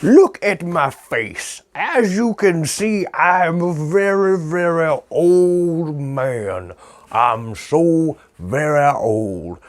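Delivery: put-on high, creaky old sailor voice; old man voice. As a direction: play a doddering old sea man. Old sea man character skit.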